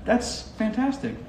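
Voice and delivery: loud, high burst of excitement; excited. Real, not acted. Guest finds out someone follows him, excited. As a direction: blurt it out high and thrilled. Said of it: "I'm so excited about that".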